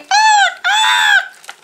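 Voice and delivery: very high, loud bird squawks; screaming jays. A narrator's reading. Narrator voices jays disturbing Owl, high loud screams. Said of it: "The jays screamed".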